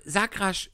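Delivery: rasch hit hard and quick; stress on rasch. Shown as a demonstration. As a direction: punch the word rasch. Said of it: "Betonung auf rasch".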